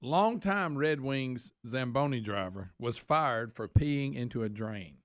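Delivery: slow, deliberate headline reading. Shown as a demonstration. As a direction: read it out word for word. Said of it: "read the headline the way it's written".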